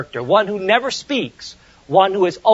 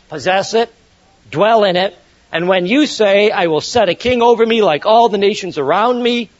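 scripture reading. Acted. Preacher reads Deuteronomy to his listeners, raised formal reading. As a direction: let the Bible text ring out. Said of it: "I'll read".

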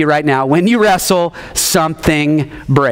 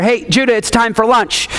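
lightly acted parent's call, pitched higher; calling child to lunch; 5 semitones higher than usual. Dad calls his building son to lunch, lightly acted call. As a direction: call out to your kid, raised in pitch.

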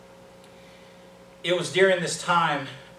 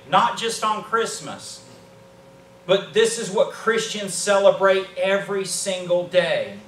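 higher, emphatic pulpit delivery; fervent preaching; 5 semitones higher, 5 dB louder than usual. Real, not acted. Preacher urging the church about what Christmas means, fervent. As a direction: drive each phrase home like a preacher.

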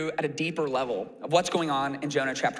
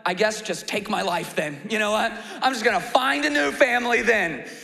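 put-on toddler tantrum; 2 semitones higher than usual. Toddler denied dessert threatening to leave, petulant whine. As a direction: sulk like a kid denied dessert. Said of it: "Jonah goes full toddler".

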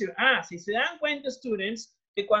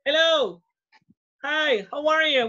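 bright, raised voice of delighted welcome; excited greeting; 4 semitones higher than usual. Real, not acted. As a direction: greet the student with real delight. Teacher greets student excitedly. (saludo entusiasmado)

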